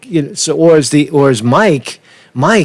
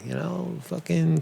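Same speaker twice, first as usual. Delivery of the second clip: muttered aside; 3 semitones higher, 15 dB quieter than usual. Real, not acted.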